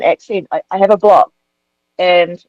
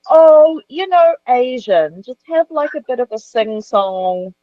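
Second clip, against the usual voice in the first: high-pitched, drawn-out imitation of a vague casting request; mock casting team; 6 semitones higher, slower than usual. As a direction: mimic them airily, pitch lifted high. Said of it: "And they were like".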